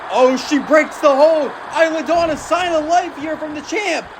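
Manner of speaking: energetic play-by-play, bursts of shouting; wrestling commentator. Acted. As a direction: keep calling the action with rising hype. Continues live match commentary.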